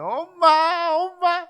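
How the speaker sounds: put-on high, loud childlike wail; a lost child sobbing for mother; crying for mom. (엄마를 부르며 우는 아이)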